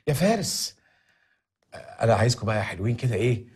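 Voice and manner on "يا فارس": high, slow pleading; urgent high-pitched plea about the debts. Acted. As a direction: beg him urgently to go ahead.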